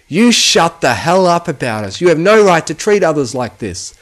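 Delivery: furious shout. Acted. Filly diving at the bullying boss, furious screaming. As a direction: hurl it at him mid-dive.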